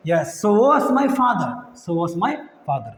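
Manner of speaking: very slow, every word spelled out by voice; slow model phrase. Shown as a demonstration. Teacher drills the past answer for students, very slow. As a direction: drill it slowly for the class. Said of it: "teacher models answer phrase".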